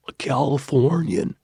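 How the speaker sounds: swallowed Californian vowels; Californian accent. Shown as a demonstration. Vlogger trying out how Californians swallow words, Californian accent. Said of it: "swallow their words like a Californian".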